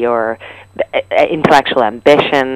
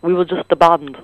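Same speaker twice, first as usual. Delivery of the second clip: put-on a light Liverpool accent on "We were just a band."; a hint of a band's Liverpool sound, lightly imitated. Quoting a famous band to the host in light Liverpool accent. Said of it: "you hear the band".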